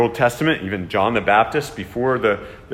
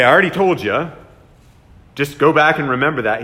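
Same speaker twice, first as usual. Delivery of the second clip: impatient retort; 4 dB louder, faster than usual. Pretend. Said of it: "He doesn't say".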